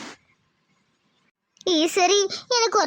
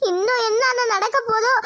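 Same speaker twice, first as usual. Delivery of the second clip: weeping worry. Acted. Mother weeps over fate.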